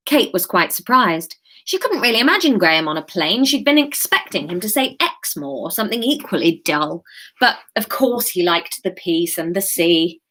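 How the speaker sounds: measured live chapter reading; story narration. A narrator's reading. Author reads her chapter to live listeners, story narration.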